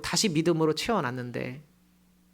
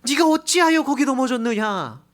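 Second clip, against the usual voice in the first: higher, louder commanding question; God's firm answer; 7 semitones higher, 6 dB louder than usual. Acted. God answering the complaining believer, firm and loud. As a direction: throw the question right back. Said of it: "하나님 뭐라 그래요?".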